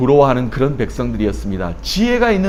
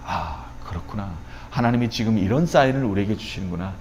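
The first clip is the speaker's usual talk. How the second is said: hushed, lower voice of dawning understanding; quiet realisation; 6 semitones lower, 7 dB quieter than usual. Acted. Preacher voicing the prophet understanding God's sign, hushed realisation. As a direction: softly take it in.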